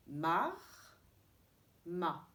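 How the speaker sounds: "Mar" with r sounded, then "ma" open a without r; teacher repeating the syllable pair slowly; mar then ma contrast. Shown as a demonstration. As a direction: make the r in "Mar" audible, then drop it in "ma". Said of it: "Cherchez la différence".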